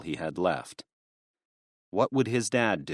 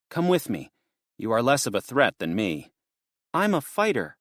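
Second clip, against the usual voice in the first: put-on higher, girlish worried voice; worried young girl; 3 semitones higher than usual. Lydia asking Garth about the police, lightly higher and worried. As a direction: lift into a young girl's anxious question.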